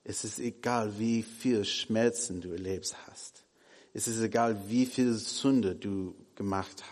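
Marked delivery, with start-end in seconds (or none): none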